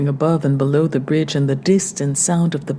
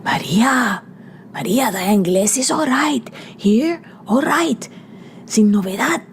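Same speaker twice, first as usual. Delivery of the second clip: calling from below; 6 semitones higher than usual. Acted. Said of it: "the big, deep voice from the timber below".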